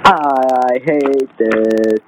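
long drawn-out mock complaint; imitating a sulky gamer, very slow; mock angry. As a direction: drag every word out in mock annoyance. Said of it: "you don't have to get angry".

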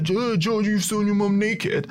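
blurting it out. Retold or imitated. A kid in church to his friend, blurting it out. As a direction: blurt it out for all to hear. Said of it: "blurting it out".

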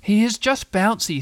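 high, slow little animal voice; piping, careful character voice; timid Piglet. A narrator's reading. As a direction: defend him earnestly in a small high voice. Piglet defends Tigger.

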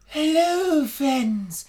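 grand, slow elf introduction; pompous elf voice. Acted. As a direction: play a haughty elven master. Introduced guest from fantasy land.

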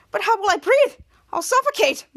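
worried. Retold or imitated. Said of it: "who was so worried".

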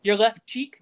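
light retold call-out; calling after her. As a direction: toss it after someone walking away. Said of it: "he calls up behind her".

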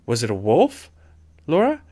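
high breathless frightened question; gasping fear. A narrator's reading. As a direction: gasp it out in fear. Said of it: "Carrie gasped".

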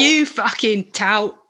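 slow mock swearing at someone; playful fake insult, slowed right down. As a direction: hurl "tout" like a swear word, drawn out. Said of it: "sounds like a swear word".

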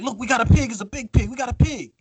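mock excited. Contestants showing off their trapped pig, mock excited. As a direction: squeal over the caught pig, half-joking. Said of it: "So they're like".

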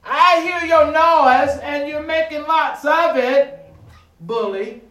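slow, loud words of defiance; defiant declaration. Pretend. Preacher defying the devil, slow loud declaration. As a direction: stand up to the devil, slow and firm. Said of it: "look him square in the face and say".

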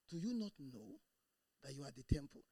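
hesitant, doubtful reading of the verse; mumbled unsure verse reading; flat timid reading. Shown as a demonstration. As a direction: read it like you don't believe it. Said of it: "that's the way the person reads it".

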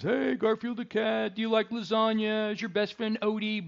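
sing-song ribbing of a kid named Garfield, lightly voiced; teasing kids. Friends mocking twelve-year-old about the cat, light teasing voice.

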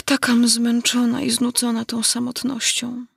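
lightly voiced plaintive girl; sorrowful little heroine. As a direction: lament your lot with a touch of self-pity. Alinka laments, eyes filling with tears.

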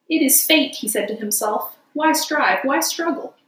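mock-tragic Toad resigning to fate; dramatic Toad. Toad talks to himself dramatically.

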